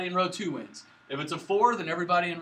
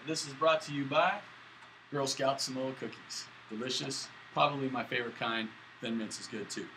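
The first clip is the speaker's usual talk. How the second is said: mock commercial; 2 semitones lower, 4 dB quieter than usual. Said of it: "I'm gonna do a commercial".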